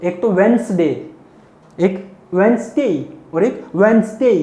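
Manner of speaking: वेडनेसडे repeated, z in the middle stressed; teacher drilling वेडनेसडे; repeated model. Shown as a demonstration. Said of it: "आपको सुन अभी भी स रहा होगा".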